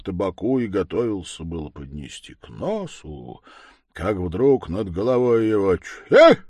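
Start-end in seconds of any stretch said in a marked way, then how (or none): 5.8-6.4 a sudden high, loud explosive sneeze; huge sneeze. A narrator's reading. An unseen thing sneezes over grandpa's head, a huge sneeze. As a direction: sneeze so hard the trees shake. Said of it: "чихнули что-то так".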